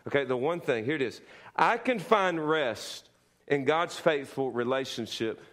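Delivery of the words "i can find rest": slow, weighty, leaning on can; a preacher's emphatic declaration; emphatic statement. Shown as a demonstration. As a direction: lay each word down deliberately. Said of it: "some emphatic statements".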